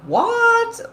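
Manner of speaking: high, incredulous rising question; exaggerated startled reaction; mock disbelief. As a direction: recall being baffled, voice leaping up. Acts first reaction to the concept.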